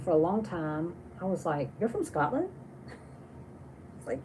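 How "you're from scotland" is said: high, rising disbelieving question; retold surprise. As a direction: replay being taken aback, voice lifting at the end. Retelling surprise at friend's origin.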